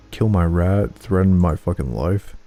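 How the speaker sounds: loud, bitter outburst; raging at the game; angry. Real, not acted. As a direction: vent the fury hard. Angry outburst about the killed rat.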